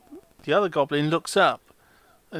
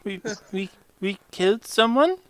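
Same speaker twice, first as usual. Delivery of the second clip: rising shocked goblin question; 4 semitones higher, 4 dB louder than usual. Acted. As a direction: gasp it out in disbelief. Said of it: "He looks positively shocked".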